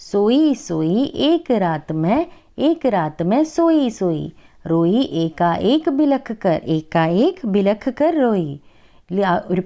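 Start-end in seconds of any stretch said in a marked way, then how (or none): 0.1-8.5 put-on slow, sing-song recital of a children's poem; poem recitation. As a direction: recite each line slowly for the class. Teacher recites Hindi poem.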